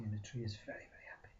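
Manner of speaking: plain reading voice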